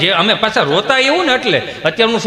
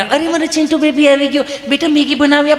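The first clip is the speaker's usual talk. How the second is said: high, gushing mother's coo; doting mother; 7 semitones higher than usual. Acted. Mother greeting her child home from tuition, doting. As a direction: fuss over your little darling in a raised pitch.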